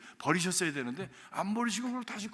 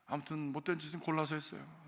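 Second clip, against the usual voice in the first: ordinary talk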